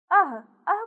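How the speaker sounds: अः ending in an h sound; visarga like h. Shown as a demonstration. Teacher shows children the visarga, अः ending like h. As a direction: release अः into an audible h. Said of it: "इसका उच्चारण ह ध्वनि जैसा होता है".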